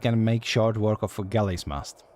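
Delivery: put-on reading a guild recruiter's lines in a Scottish pirate accent; lilting Scottish brogue, storyteller pace. Streamer voicing a guild recruiter, Scottish accent. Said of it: "I don't know why she's Scottish".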